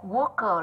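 "Worker" ending in a weak ơ; "Worker" stressed first, short schwa at the end; weak final vowel. Shown as a demonstration. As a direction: say "Worker" with an unstressed second syllable. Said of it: "là âm ơ yếu".

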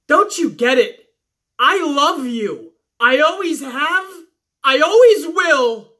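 slow, hammed-up declaration of love; a hint of a teary confession, drawn out; mock love confession. Sasha confessing love to Bayley, slow hammed-up tender. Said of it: "she says".

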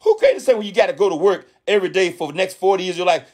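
high-pitched ranting outburst, pitch shooting up; mad screaming. Retold or imitated. Retelling a young woman's rant about working forty years, high mock yell. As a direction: retell her going off, mock outrage. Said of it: "She was screaming".

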